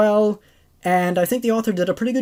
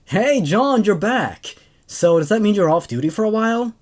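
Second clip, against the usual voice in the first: cheerful greeting. Acted. Excited friend greets returning Marine.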